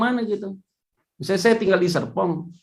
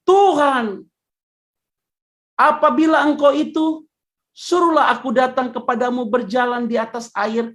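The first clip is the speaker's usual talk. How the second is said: calling out; 5 semitones higher than usual. Acted. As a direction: call out across the water. Peter calling out on lake.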